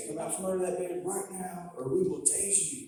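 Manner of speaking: mock cop command, high and firm; police threat. Voices cops threatening to tase.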